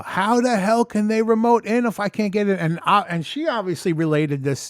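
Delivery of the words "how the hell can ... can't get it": mildly raised, exasperated voice; all-caps text voiced. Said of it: "all caps. I said".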